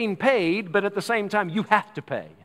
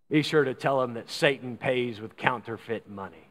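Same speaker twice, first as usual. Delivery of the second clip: lower, lightly crotchety dying man; deep crotchety voice; 5 semitones lower, 3 dB quieter than usual. Retold or imitated. Dying man's last words to the preacher, low and mildly crotchety. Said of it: "in a deep, crotchety voice".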